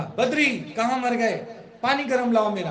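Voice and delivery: retold impatient shout for Badri; bossy master's yell. Master shouting at servant Badri for hot water, mock angry call.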